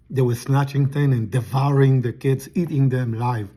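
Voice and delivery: talking with a mouth full. Real, not acted. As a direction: speak around a bite of food. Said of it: "Sorry, I'm eating something".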